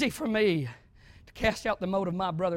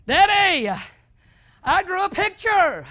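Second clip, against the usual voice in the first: put-on little boy; 10 semitones higher, 8 dB louder, slower than usual. Voicing his small son.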